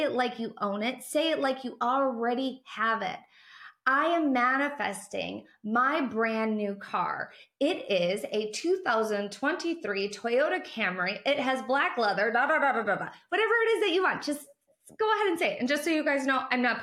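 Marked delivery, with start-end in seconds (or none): 3.9-13.1 proudly. Shown as a demonstration. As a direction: announce it like you already own it. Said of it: "Say it proudly".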